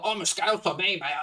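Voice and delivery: imitating a pretend Scouser; mock Scouse. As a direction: put on a mocking Scouse accent. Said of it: "put on this Scouse pretending".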